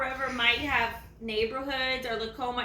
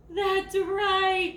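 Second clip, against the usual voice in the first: higher and louder cheerful praise; excited praise; 6 semitones higher, 5 dB louder than usual. Acted. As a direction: cheer them on for the right answer. Praising children's answer.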